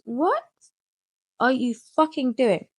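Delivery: hammed-up father outrage; dad catching son smoking, mock furious; imitating angry dad. Dad confronts him.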